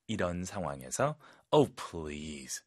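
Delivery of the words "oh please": skeptical oh please. Shown as a demonstration. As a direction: lower scoffing "Oh, please", long falling "oh". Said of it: "감정이 정말 중요합니다". (낮고 어이없다는 "Oh, please")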